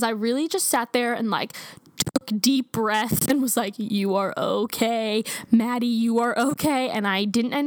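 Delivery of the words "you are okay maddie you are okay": slow, steadying reassurance; calming self-talk. Retold or imitated. Calming herself during a blood draw, slow and steadying. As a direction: talk yourself down slowly.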